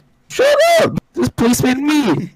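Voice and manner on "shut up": shouted shut up. Real, not acted. Friends squabbling over policeman roles.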